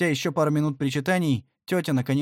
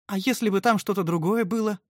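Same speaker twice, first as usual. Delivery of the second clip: moaning; 7 semitones higher than usual. A narrator's reading. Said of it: "простонала она".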